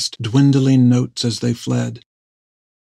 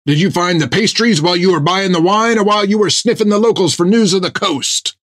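higher, sly needling voice; teasing sailor; 7 semitones higher than usual. A narrator's reading. Jack needling Topper about the pastries, higher and sly. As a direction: poke fun at him.

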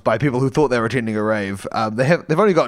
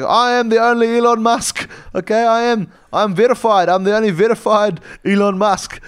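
much higher, louder outraged tycoon; indignant Elon Musk; 9 semitones higher, 3 dB louder than usual. Retold or imitated. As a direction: squeal with offended pride over his face. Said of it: "He's like".

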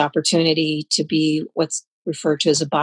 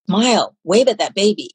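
mildly stern imitated order, slightly emphatic; stern retold command; 3 semitones higher than usual. Older man nudging a girl at the table, mildly stern. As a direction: retell a stern order to a child. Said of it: "in a really stern way".

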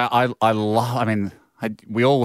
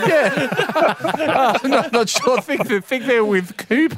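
much higher, drifting dopey mumble; vague dopey voice; 13 semitones higher, slower than usual. Retold or imitated. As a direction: play it like a clueless bloke. Voicing Russell's vague answer.

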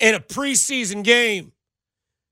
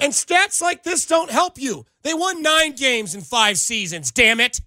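slow, louder, every word punched; exasperated rant; 5 semitones higher, 4 dB louder, slower than usual. Real, not acted. Host firing back at the texter's stats, fed up. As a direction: hammer the numbers home in annoyance.

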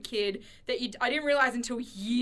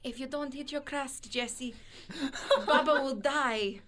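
grandma; 5 dB quieter than usual. Retold or imitated. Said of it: "she would be like".

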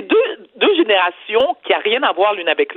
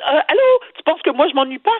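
exasperated; 5 semitones higher than usual. Retold or imitated. Exasperated daughter to her mother.

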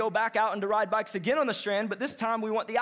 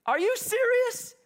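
much higher and slow, drawn out; emphatic disbelief; 14 semitones higher, 3 dB louder, slower than usual. Retold or imitated. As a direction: stretch it out, truly amazed. Local repeats, now emphatic.

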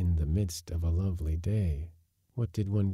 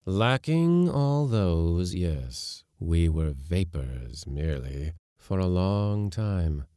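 ominous reveal; eerie ghost voice; hollow spirit; slower than usual. Acted. Spirit answers.

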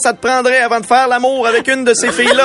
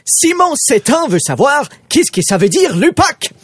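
silly clown. Acted. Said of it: "C'est moi Francis, technicien en garderie".

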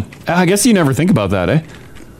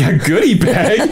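higher, slow, laughing disbelief; incredulous echo; 5 semitones higher than usual. Retold or imitated. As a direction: repeat it back in amused surprise. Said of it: "And I'm like".

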